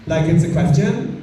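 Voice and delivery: "question" lifted at the end like asking; rising uptalk. Shown as a demonstration. Comedian explains Californian speech, with uptalk rising on "question". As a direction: let the last syllable of "question" go up. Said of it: "make the last syllable go up".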